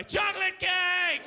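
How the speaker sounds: hammed-up terrified shriek; panicked cry. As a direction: scream the decoy words in panic. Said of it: "panicked cries of".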